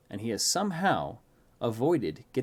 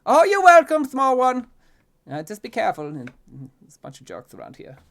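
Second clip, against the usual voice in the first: high, loud call, settling quicker; fancy gentleman calling out; 12 semitones higher, 14 dB louder than usual. A narrator's reading. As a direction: call after the child, then tail off. Fancy man calls after child.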